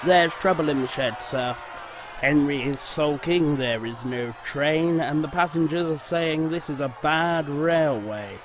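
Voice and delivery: hurried, anxious station master; station master worried, reporting to the boss. Acted. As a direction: rush the bad news out. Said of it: "looking worried".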